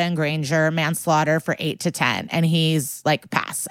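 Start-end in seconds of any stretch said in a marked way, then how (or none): 3.3-3.7 calm. Retold or imitated. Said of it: "this is the calm Olympics".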